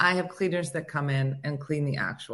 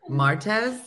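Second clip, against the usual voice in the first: Spanish accent; 3 semitones higher than usual. Shown as a demonstration. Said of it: "Can I use it in a sentence".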